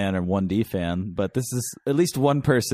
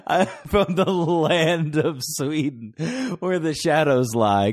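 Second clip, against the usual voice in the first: slow, high mock Swedish accent; 5 semitones higher, much slower than usual. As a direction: intone it in a grand Swedish accent. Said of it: "you should do a Swedish accent".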